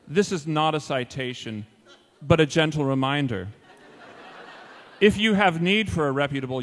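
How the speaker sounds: measured, formal reading of a notice; mock-official letter reading. Homeowners' chairman writing to a neighbor, mock-official. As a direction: read it out as a pompous committee letter. Reads out his fake letter.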